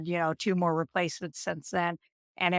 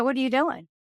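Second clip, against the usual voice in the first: alarmed; 7 semitones higher, faster than usual. Retold or imitated. Stopping the anesthesiologist.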